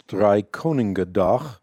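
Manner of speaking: Drie Koningendag said the native Dutch way, guttural g in Koningendag; Dutch pronunciation. Real, not acted. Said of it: "called in my home language, the Dutch language".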